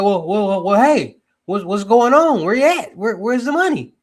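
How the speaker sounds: loud, high, pushy, demanding tone. Retelling how the authorities come after loan takers: imitating officials demanding money. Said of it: "they'll be like".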